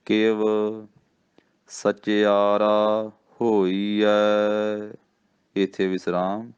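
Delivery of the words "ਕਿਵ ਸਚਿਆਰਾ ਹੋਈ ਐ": ਕਿਵ, short pause, then ਸਚਿਆਰਾ ਹੋਈ ਐ very slowly; slow recitation with a break after ਕਿਵ. Shown as a demonstration. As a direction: stop briefly on ਕਿਵ before going on. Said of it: "ਥੋੜ੍ਹਾ ਜਿਹਾ ਰੁਕ ਕੇ".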